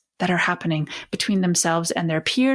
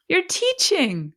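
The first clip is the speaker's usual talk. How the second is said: higher, slower, beaming; delighted emphasis; 10 semitones higher than usual. Shown as a demonstration. Coach delights as she tells parents, higher and slower. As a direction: savour it as praise.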